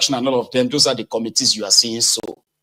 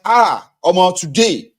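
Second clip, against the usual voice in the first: higher, breathless retelling; excited mock recital; 5 semitones higher than usual. Voter boasting he recited prayers, high and eager. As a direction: rattle off the prayers proudly. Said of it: "I was like".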